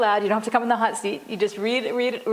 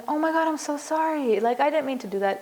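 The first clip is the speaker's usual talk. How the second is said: gushing, overdone sorry pitched much higher; fake apology; 6 semitones higher than usual. Shown as a demonstration. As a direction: overact a hollow, insincere apology. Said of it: "you don't wanna do it in a fake way".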